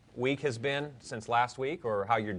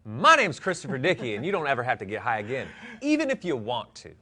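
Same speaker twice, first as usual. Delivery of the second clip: proud declaration; 2 semitones higher, 4 dB louder, faster than usual. Acted. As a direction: say it back like a bold promise. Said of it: "I wanted to hear something like".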